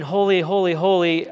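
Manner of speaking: loud, measured proclamation; crying out. Retold or imitated. Seraphim crying out in Isaiah's vision, lightly imitated, loud. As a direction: call it out in praise. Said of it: "the seraphim are crying".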